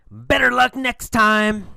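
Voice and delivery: high, taunting yell to a rival; mock yell. Alan to Tom as he zooms past him, mock yell. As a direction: call it out high over your shoulder. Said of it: "he has yelled every time".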